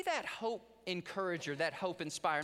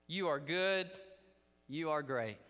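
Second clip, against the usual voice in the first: put-on child's prayer. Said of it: "And he said".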